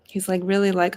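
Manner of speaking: ordinary delivery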